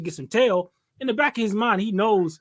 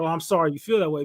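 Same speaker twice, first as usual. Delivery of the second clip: dismissive, quicker sarcastic apology; mock-sorry, quick and dismissive; more sarcastic; 3 semitones lower, faster than usual. Shown as a demonstration. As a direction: brush it off like an asshole. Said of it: "even more sarcastic".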